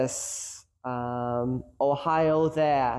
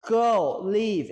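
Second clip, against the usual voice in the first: much higher, mock yelling coach; a hammed-up angry coach rant, pitched up; 7 semitones higher than usual. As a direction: rant at the team like a fed-up coach. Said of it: "going in there and yelling like".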